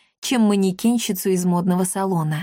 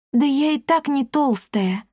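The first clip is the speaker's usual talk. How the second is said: put-on higher-pitched girl's objection; protesting; 6 semitones higher than usual. A narrator's reading. Girl objecting to the old woman's jibe, protesting. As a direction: try to object in a higher girlish voice. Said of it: "пыталась возразить Дарина".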